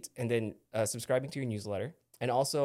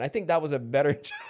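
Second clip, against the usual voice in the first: laughing through the words, a bit faster; 5 dB louder, faster than usual. Real, not acted. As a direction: giggle while correcting yourself. Laughing at own flubbed line.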